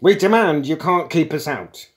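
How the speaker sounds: loud, high protesting bawl. A narrator's reading. Younger intruder already inside the room, bawling. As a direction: bawl it as a muddled demand. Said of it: "bawled the younger one".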